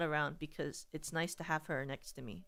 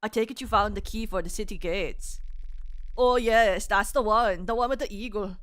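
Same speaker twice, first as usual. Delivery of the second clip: put-on game man with a botched German accent; weird German-like accent; 6 dB louder than usual. Game character asks about city gate key, German-ish accent. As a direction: improvise a vague Deutschland accent, growing louder. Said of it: "Deutschland accent?".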